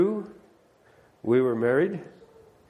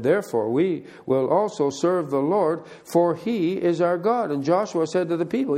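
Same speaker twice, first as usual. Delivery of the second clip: measured scripture reading voice; 2 semitones higher than usual. Acted. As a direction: read the Bible passage aloud to the congregation. Reads scripture aloud.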